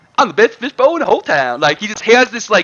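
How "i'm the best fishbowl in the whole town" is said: put-on celebrity voice, lisp on every s. Showing the fishbowl character from the game: Shannon Sharpe voice. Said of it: "Shannon Sharpe, the fishbowl".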